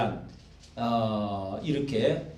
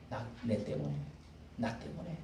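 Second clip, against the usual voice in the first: hushed guilt; 3 semitones lower, 12 dB quieter than usual. Retold or imitated. Voicing guilty king, hushed.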